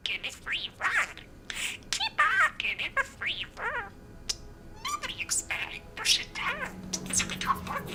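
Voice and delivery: tiny squeaky budgie voice; chirpy little bird mimicking speech; parakeet chatter. Real, not acted. Budgie Disco sleep-talking.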